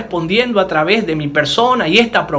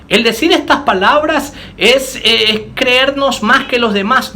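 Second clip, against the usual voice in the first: raised, rejected take of the phrase, El decir estas palabras es with lifted pitch; wrong version; 5 semitones higher than usual. Shown as a demonstration.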